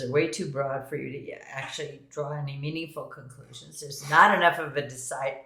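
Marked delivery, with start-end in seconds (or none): 3.8-5.4 hiccupy, interrupted speech; talking through hiccups; suppressing hiccups. Real, not acted. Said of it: "I have the hiccups for some reason".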